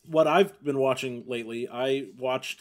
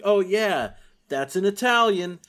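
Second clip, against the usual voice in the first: mock naive viewer; 7 semitones higher, 6 dB louder, slower than usual. Mocking a naive American viewer.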